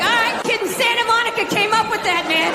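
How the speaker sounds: mock surfer dude. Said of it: "I'm like".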